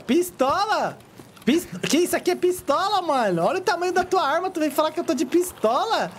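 high, outraged protest; indignant. Real, not acted. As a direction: protest in disbelief, pitched high. Indignant protest about his gun.

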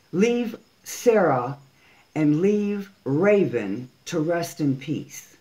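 warning him to leave the dead to rest, slowly and firmly; stern demand. Real, not acted. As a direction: spell it out word by word.

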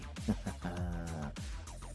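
soft, self-satisfied chuckle. Acted. Villain to lover seated on the throne, gloating chuckle. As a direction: chuckle quietly to yourself.

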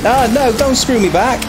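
high, pleading cry; alarmed high protest. Real, not acted. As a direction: flinch as the rival hits back. Rival retaliates in race.

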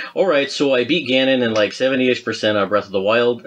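put-on light, hammy Canadian accent. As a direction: read the fan's note in a cheesy Canadian accent. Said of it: "I'm gonna see if I can do my Canadian accent here".

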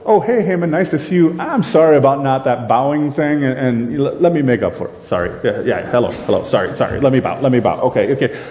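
a hint of a flustered, fawning Mordecai; hurried mock apology, lightly voiced; half-hearted groveling sorry. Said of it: "Mordecai might go".

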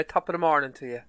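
a light mock Irish greeting; quick, lightly Irish top of the morning. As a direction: tease him with a hint of an Irish lilt. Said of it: "still sore over that accent".

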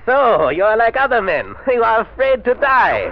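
high, loud gloating laugh through the words; taunting, laughing villain; mocking laugh. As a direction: sneer at his fear with a laugh.

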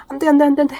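firm no. Real, not acted. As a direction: stop the dog firmly. Stopping dog from leaving.

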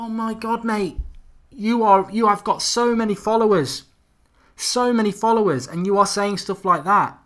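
loud, high exasperated rebuke; exasperated telling-off. Retold or imitated. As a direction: scold him for misleading followers. Scolding a celebrity tweeter.

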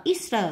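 "Easter" stressed on "Eas"; first-syllable stress. Shown as a demonstration. Teacher marking word stress, "Easter" stressed on the first syllable. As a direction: put the weight on EAS in "Easter". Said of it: "nhấn âm một".

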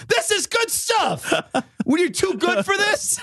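high, slow goofy bear voice; a bear pushing garbage as food. Retold or imitated. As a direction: play the bear coaxing you to eat. Bear voice again.

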